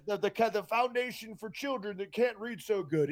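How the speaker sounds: Zoolander quote. Retold or imitated. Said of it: "in the movie Zoolander".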